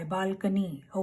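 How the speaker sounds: "balcony" slowly as BAL-kuh-nee; correct balcony. Shown as a demonstration. Teacher modelling the sound breakdown, slow correct pronunciation. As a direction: draw out "balcony" with a light middle vowel. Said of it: "इसमें C N Y".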